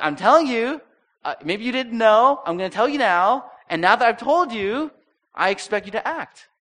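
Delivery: high, loud, insistent mock lecture; pushy demand. Pastor mocking how we lecture people, loud and pushy. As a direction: hammer it home like a nagging know-it-all. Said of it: "we're like".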